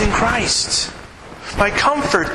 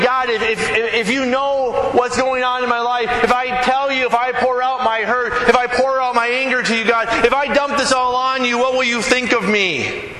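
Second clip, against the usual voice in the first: higher, pleading voice, a touch fearful; afraid prayer; 5 semitones higher than usual. Retold or imitated. A worshipper afraid to pour out hurt to God, timidly pleading. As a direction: voice the hesitant fear of a hurting believer. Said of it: "And we're afraid".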